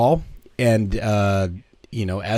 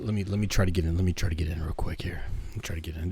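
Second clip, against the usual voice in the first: getting into character; 4 semitones lower, 8 dB quieter, much faster than usual. Pretend. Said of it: "your deepest voice".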